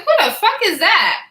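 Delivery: spotting a fine man at work, excited. Retold or imitated. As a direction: blurt it out, thrilled. Retells seeing a fine man.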